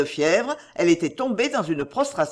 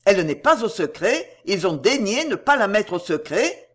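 incredulous outcry. Acted. Doctor echoes his friend's news, incredulous rising outcry. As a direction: throw the words back in bitter disbelief. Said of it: "s'écria Sebron".

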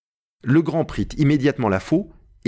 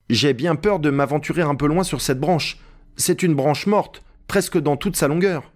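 higher-pitched, lightly voiced worried servant; Jupiter, timid climber; 5 semitones higher than usual. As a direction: voice a wary climber reporting back, pitched up. Narrator voices Jupiter up the tree. (Jupiter, un peu craintif, voix plus aiguë)

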